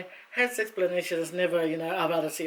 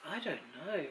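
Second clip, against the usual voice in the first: quoting husband; 4 semitones lower, 12 dB quieter, slower than usual. Retold or imitated. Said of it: "And he goes".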